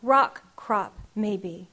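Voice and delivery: measured, rhythmic spoken-word delivery; poem reading. Acted. Poet reading her grandmother poem to the audience, rhythmic. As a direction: let each image land in the verse.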